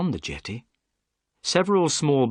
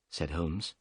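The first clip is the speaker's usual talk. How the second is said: usual speaking voice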